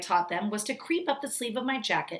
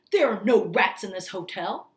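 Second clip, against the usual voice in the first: louder flat-out denial; indignant denial; 6 dB louder than usual. Acted. Manager denying rats to grandmother, loud and indignant. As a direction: deny it firmly.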